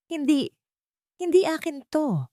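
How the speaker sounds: high, panicked no; shocked denial. A narrator's reading. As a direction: plead in sudden disbelief.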